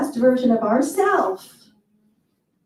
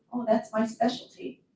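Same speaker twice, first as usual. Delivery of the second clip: breezy favorite line; 8 dB quieter than usual. Retold or imitated. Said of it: "one of my favorite statements is".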